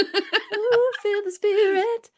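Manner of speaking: high laughing churchy ooh; mock gospel praise, laughing; preacher voice. Mock revival cheer.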